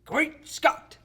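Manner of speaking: high, loud, hammed-up exclamation; teasing catchphrase shout. Brother teasing sister with the hated catchphrase, mock shout. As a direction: yell it theatrically to needle her.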